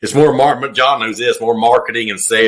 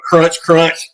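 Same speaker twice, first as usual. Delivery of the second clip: raised-pitch mimicked munching noise; imitated candy crunching; 6 semitones higher than usual. Brother telling how a hunter ate candy, mock crunching. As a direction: say it like noisy chewing in the woods. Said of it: "brother's sitting there going".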